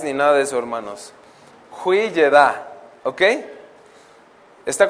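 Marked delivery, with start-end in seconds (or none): 1.8-2.7 Hui Yedá sounded out as wee-yeh-DAH, slow and deliberate; careful foreign word. Shown as a demonstration. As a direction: pronounce Hui Yedá carefully, syllable by syllable, with a falling close. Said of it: "a ver si lo puedo pronunciar".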